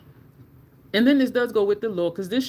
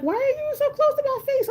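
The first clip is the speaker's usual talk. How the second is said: very high-pitched indignant question; high, squeaked retort from a retold argument; incredulous protest. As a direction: act out being startled, voice shooting way up. Replays confronting woman too close.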